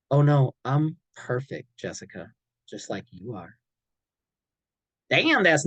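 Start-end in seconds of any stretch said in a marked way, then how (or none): 0.1-3.6 contemptuous sarcasm. Acted. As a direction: drag it out, full of disdain.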